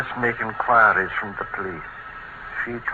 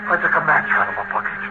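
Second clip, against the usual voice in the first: high-pitched, rushing, half-mad; a man unravelling as the fire starts; frantic despair; 12 semitones higher than usual. Acted. Setting the house on fire.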